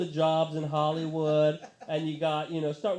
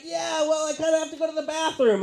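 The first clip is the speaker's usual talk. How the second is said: sheepish reply; 11 semitones higher, 6 dB louder than usual. Retold or imitated. His own reply to the band.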